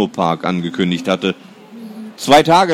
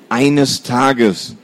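growled. Acted. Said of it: "knurrte er".

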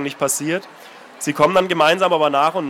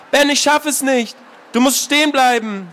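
desperate tearful plea; 8 semitones higher than usual. Acted. Anna failing to catch her brother, desperate plea. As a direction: plead with him, losing strength.

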